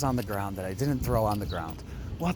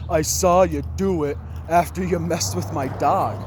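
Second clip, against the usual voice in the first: retold accusation; 5 semitones higher, 5 dB louder than usual. Acted accusation from angry neighbor.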